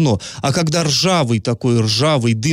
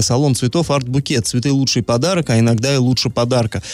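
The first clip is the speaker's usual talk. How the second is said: steady sponsor ad read. Acted. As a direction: read the sponsor spot clean.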